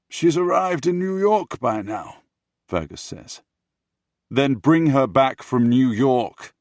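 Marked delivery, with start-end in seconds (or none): 0.1-2.2 high, loud put-on character voice; objecting retort. Fergus answering the prince's demand, objecting retort. 4.3-6.5 loud, high, slow demand; insistent command. Acted. Prince overruling Fergus's objection, insistent command.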